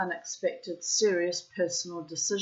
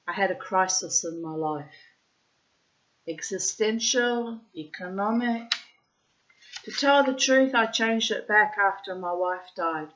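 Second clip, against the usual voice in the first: put-on Russian accent; 2 semitones higher than usual. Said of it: "I'm putting in the Russian accent".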